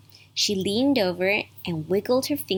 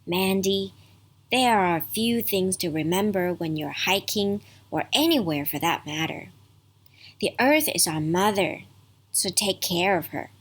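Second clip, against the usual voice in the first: soft voice. Acted. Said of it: "In a soft voice".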